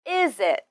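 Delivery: "Is it" run together through the z; linked z. Shown as a demonstration. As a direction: carry the z of "Is" into "it". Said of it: "link the final z sound of is".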